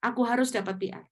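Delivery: high, loud, stubborn protest; mock an angry student who won't give in; angry insistence. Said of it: "langsung marah-marah".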